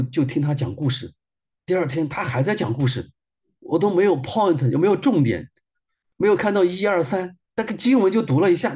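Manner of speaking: rising, exasperated grumbling to God; frustrated complaint. Retold or imitated. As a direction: vent like a let-down customer.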